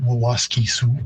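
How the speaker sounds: Wawaske Sioux with a narrower first vowel, wi-wa-ski-sioux; the Woods Cree form, Wawaske Sioux with a doubled opening syllable; Woods Cree pronunciation. Shown as a demonstration. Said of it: "And in Woods Cree".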